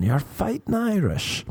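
high, teasing imitation; drawn-out, high-pitched jibe; mock stereotyping. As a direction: mimic people ribbing the Irish, pitch climbing. Voices people's stereotype of Irish.

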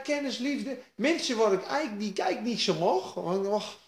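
ordinary talk, nothing marked

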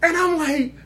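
high, laughing-crying voice. Real, not acted. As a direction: near tears from laughing.

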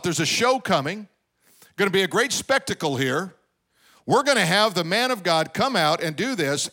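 mock the proud general expecting a show; proud Naaman's thoughts. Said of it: "He thought".

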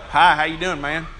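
lightly voiced low cowboy greeting; rodeo star's greeting. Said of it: "Joe's like".

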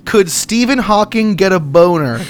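clear, deliberate query to Siri; repeating to voice assistant. Real, not acted. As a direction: spell it out for the phone.

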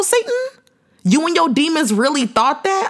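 high mocking call, rising; taunting. Real, not acted. Taunting Satan who tried to kill her, high and mocking. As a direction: jeer at him as a question.

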